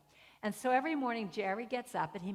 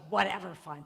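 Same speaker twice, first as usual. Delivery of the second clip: loud, dismissive huff; retold brusque concession; grudging mock surrender; 6 dB louder than usual. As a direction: imitate her giving in irritably. Repeats woman's grudging answer.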